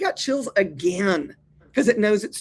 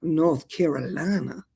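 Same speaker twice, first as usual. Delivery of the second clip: put-on Southern accents; 2 semitones lower than usual. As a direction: show off Nashville, then North Carolina accent. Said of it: "Can you do it with a Southern accent".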